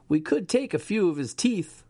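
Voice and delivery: a high, eerie buzzing voice inside his head. A narrator's reading. The voice in Dave's head tempts him, buzzing. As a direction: hiss it like a parasite in his skull. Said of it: "the voice buzzed in his head".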